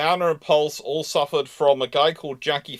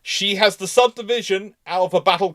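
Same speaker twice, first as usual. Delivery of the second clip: emphatic louder; 6 semitones higher, 6 dB louder than usual. Real, not acted. Heated naval argument.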